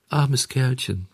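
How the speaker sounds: sanft, höher und leiser; mitleidig. Acted. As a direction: voller Mitleid gesprochen. (mitleidig zum gefangenen Hampelmann)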